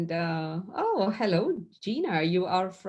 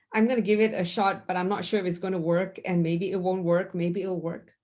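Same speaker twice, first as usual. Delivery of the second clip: mock unsure trier; faster than usual. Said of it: "Trying just means that".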